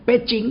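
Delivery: "Peking" said as "pe-ching"; native pronunciation. Shown as a demonstration. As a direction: say "Peking" with a ch in the middle. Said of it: "sebetulnya bacanya Peking".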